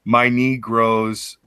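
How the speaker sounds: "My knee grows" very slow, word by word; slowly sounded out. Shown as a demonstration. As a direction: drag out "knee" and "grows" to catch the pun. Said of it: "All say together".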